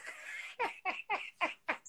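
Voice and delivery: high, quiet cackling; real laughter. Real, not acted. Streamer amused by viewer's comment, high quiet laughter. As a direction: laugh in a high, voiceless run.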